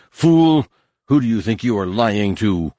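loud, furious shout; angry shout. Acted. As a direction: bark it with all his rage. Nomanor kicks and rages.

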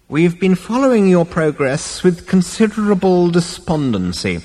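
put-on high, lecturing old man; pompous elder's weary reproach; disapproving old ancestor. A narrator's reading. Ancestor lectures, ignoring interruptions.

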